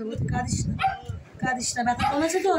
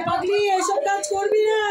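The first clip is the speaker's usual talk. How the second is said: a raised, choked-up plea; tearful pleading; 3 semitones higher than usual. Real, not acted. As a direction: beg her not to do it. Pleading against her suicide.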